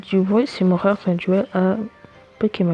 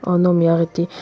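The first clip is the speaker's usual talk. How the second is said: loud exasperated plea; fed-up yell at mobs; raging gamer; 2 semitones lower, 6 dB louder than usual. Real, not acted. More Endermen appear. (joueur énervé)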